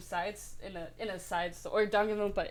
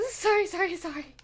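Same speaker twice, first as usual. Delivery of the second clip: high, loud giggly sorry; mock-sheepish, high apology; laughing apology; 9 semitones higher, 6 dB louder than usual. Real, not acted. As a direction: blurt it out through embarrassed laughter. Apologizing after crude reading.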